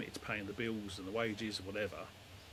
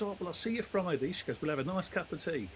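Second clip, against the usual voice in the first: put-on old lady voice; 7 semitones higher, 3 dB louder than usual.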